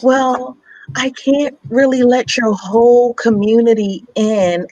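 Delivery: high, prissy imitation of the doctor; mock doctor voice. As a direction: mimic her dismissive tone. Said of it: "And she says to me".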